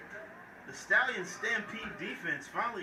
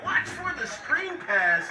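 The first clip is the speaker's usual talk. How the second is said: coach yelling; 5 semitones higher, 5 dB louder than usual. Retold or imitated. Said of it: "barking orders on the sideline".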